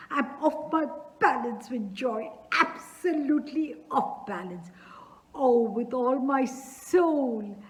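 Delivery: lightly voiced emotional old man; father blessing the match, moved and giddy; tearfully joyful father. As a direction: gush through happy tears. Chubukov tearful and off balance with joy.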